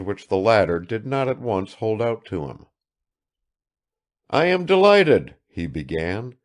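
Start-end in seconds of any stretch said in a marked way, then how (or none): 4.3-5.3 high, loud welcome; effusive, pitched-up host; delighted greeting. A narrator's reading. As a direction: greet the guest with eager delight. Father greeting son's friend.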